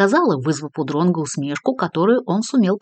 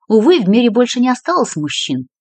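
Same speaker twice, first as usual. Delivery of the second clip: ordinary delivery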